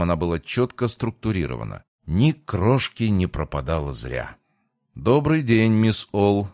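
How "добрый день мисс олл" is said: courteous greeting, pitched higher and a little louder; любезно, polite greeting. A narrator's reading. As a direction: greet her politely with a lifted voice. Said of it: "любезно произнёс я". (любезно, приподнятым голосом)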